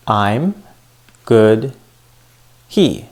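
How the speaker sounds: "I'm", "good", "he" each isolated and drawn out; stressed words alone. Shown as a demonstration. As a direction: give "I'm", "good", "he" one by one, with weight. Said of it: "I said them louder and longer".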